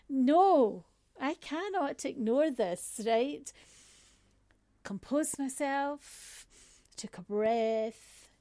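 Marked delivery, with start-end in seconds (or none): 0.1-3.0 loud refusal. Retold or imitated. Refusing to let the insult go.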